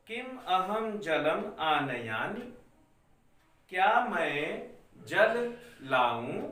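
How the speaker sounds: slow, spaced-out reading for the class to follow; slow dictation. Shown as a demonstration. Teacher dictating Sanskrit lines to students, slow and clear. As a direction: spell it out slowly so children can write along. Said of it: "मैं धीरे धीरे बोल रहा हूं बच्चों".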